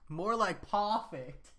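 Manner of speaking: PERFECT said slowly as "pawfect"; drawn-out pun. Shown as a demonstration. Streamer topping the paw puns, PERFECT drawn out as "pawfect".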